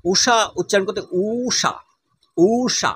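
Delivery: ঊষা with the first vowel held long; ঊষা, প্রথম স্বর টেনে. Shown as a demonstration. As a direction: draw out the ঊ of ঊষা. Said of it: "এই উ এটা দীর্ঘ".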